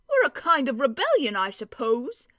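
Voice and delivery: a lightly voiced dwarf, proud of his news; gruff gravelly dwarf voice. Dwarf answers Lucy.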